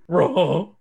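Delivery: a hint of cartoon dog; puzzled Scooby; Scooby-Doo voice. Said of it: "Scooby replies".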